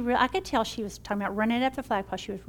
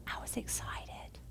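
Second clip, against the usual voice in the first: slow, hushed whisper; whispered excitement; 12 dB quieter, slower than usual. Real, not acted. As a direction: say it softly, almost secret. Recalling joy at returning to work.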